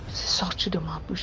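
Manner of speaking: whispered confession. Retold or imitated. A woman whispering her slip of the tongue while praying. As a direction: breathe it out, no voice.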